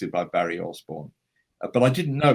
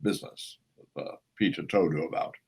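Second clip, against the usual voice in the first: emphatic grand-actor impression, swelling louder; Christopher Lee; 4 dB louder than usual. Actor on the phone correcting the story, mock imperious. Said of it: "I've got Christopher on the phone".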